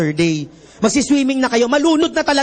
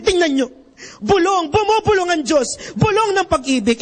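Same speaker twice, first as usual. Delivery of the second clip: a hint of a stirring announcer, somewhat higher; dramatic announcer; 5 semitones higher than usual. Priest imitating the announcer describing the whispering Christ. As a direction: sell the moment like a solemn emcee. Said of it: "Sabi nung announcer".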